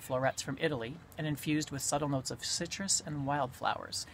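reading with a pipe between the teeth; pipe in mouth. Real, not acted. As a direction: talk around the pipe stem. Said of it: "I can smoke and read".

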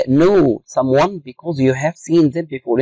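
slow dictation pace. Shown as a demonstration. Teacher reading a definition to students, slow dictation. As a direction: read out very slowly, word by word. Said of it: "teacher reads definition slowly".

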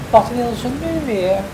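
high fish voice; high storybook fish question; magic fish. Acted. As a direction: answer in a high, loud creature voice. The fish answers the caller.

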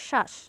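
শ্বাস said "shash" with a weighted first sound; extra initial stress. Shown as a demonstration. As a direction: lean on the opening sh of শ্বাস. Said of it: "স এর উপর অতিরিক্ত ঝোঁক পড়বে".

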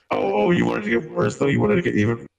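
robot voice. Pretend. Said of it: "are you doing that on purpose".

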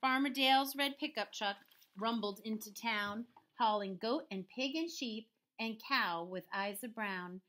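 measured storybook narration; story read-aloud. A narrator's reading. Teacher reading a farm story to pupils, measured read-aloud. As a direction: tell the rhyme in an even bounce. Reads picture book to children.

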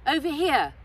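high, loud shout across distance; calling out. Acted. Uncle calling Altan across the stream, loud shout. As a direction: call him over urgently.

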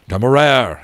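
loud, urgent call of a name; captain calling urgently to his dragon. A narrator's reading. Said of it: "he called urgently".

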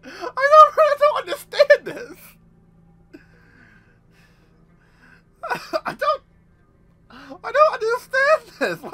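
exasperated disbelief. Real, not acted. Laughing disbelief at plot.

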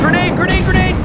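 high urgent shout of warning; grenade warning yell. Real, not acted. Warning squad of incoming grenade.

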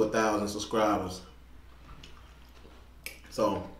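words through food; eating between phrases; talking while chewing. Real, not acted. Seen 2: Fork of pasta at mouth, lips pursed between words, eating throughout.

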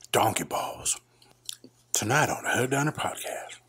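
hushed whispered intro. Pretend. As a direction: breathe it like a secret.

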